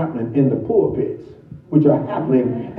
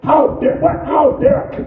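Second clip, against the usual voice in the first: high, breathless indignant cry; indignant outburst; 14 semitones higher than usual. Acted. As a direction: snap back in offended disbelief. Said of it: "implying a certain indignant promptitude".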